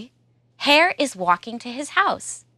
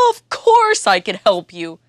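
elephant voice; 3 dB louder than usual. Acted. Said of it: "says Elephant".

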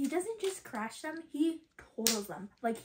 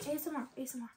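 soft, lowered ASMR voice; dropping softer on each repeat; hushed ASMR; 8 dB quieter, much faster than usual. Pretend. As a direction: say it quietly, like real ASMR. Same words again, now hushed.

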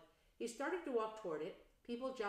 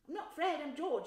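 high, loud mock protest; cheeky twin; 8 semitones higher, 7 dB louder than usual. Twin teasing his mother about his name, high and cheeky. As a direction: play the wronged twin. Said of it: "said the boy".

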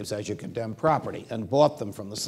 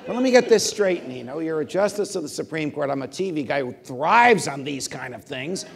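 higher and louder disbelief; incredulous; 8 semitones higher, 8 dB louder than usual. Retold or imitated. Judge to Scalia, incredulous and louder. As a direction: spell out the absurdity.

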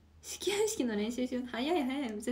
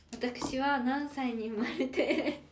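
mock self-introduction; much slower than usual. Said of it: "何歳に生まれてって間違えたんだよ".

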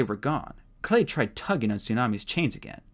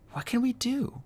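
high frantic worry; fretting under his breath; panicked; 13 semitones higher than usual. A narrator's reading. Clay panicking.

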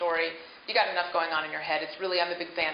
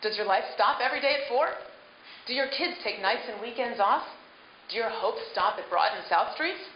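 ad read; 3 semitones higher than usual. Shown as a demonstration. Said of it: "In the second performance".

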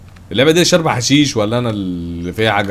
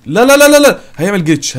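rapid-fire high, loud panic; alarmed; 9 semitones higher, 7 dB louder than usual. Real, not acted. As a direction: cry out to stop a disaster. Item falls, game about to glitch. (صرخة فزع عالية)

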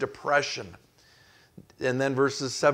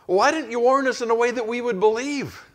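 accusing crowd; 10 semitones higher, 4 dB louder than usual. Retold or imitated. Townspeople blaming Jeremiah.

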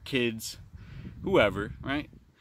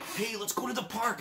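excited talking to a dog; 11 semitones higher than usual. Retold or imitated. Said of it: "kinda like what you do with your dog".

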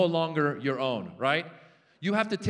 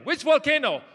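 panicked yell; 9 semitones higher, 7 dB louder than usual. Acted. Acted panic dialogue.

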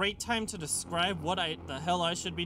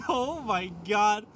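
laughing, then high alarmed; giddy panic, voice jumping up; excited panic; 9 semitones higher, 8 dB louder than usual. Real, not acted. Villain threat, player panics.

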